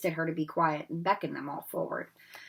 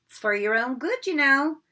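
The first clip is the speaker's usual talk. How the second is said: mock-pious, rising louder; saintly voice; 7 semitones higher, 6 dB louder than usual. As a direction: fake concern. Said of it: "in a saintly voice".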